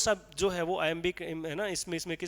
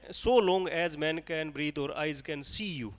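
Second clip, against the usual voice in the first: slow, lingering reading of the stretched line; slow extended recital; much slower than usual. Shown as a demonstration. Teacher reading the line with an extra syllable added to show the leftover beat, slow and even. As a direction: draw the verse out, beat by beat. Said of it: "मैंने ऐसे बोल दिया".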